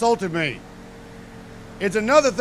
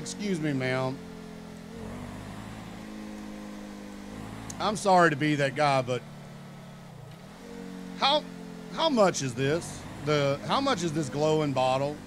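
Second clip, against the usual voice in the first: lower, softer and overly polite; overly polite quiet; 9 semitones lower, 9 dB quieter than usual. Retold or imitated. Comic asking the waitress the price, hushed and over-polite. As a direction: tiptoe the question like a nervous customer. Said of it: "and I was like".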